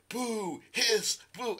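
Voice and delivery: high mock booing and hissing; playful loud jeer; imitated son heckling. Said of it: "my older son, is like".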